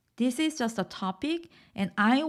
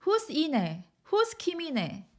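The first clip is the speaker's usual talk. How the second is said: asking; 6 semitones higher, faster than usual. Acted. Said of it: "someone is asking you".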